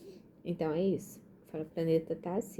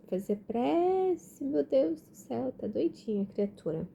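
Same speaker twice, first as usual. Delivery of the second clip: silly self-mockery; 9 semitones higher, 6 dB louder than usual. Real, not acted. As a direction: laugh at her own tiredness, high. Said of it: "tô falando que eu tô doida".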